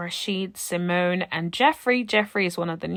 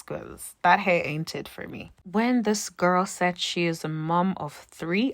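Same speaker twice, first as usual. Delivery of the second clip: ordinary talk, nothing marked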